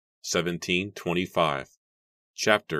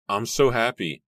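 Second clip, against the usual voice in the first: overjoyed; 6 semitones higher, 6 dB louder than usual. A narrator's reading. Mary's delighted thoughts at seeing Jeremy.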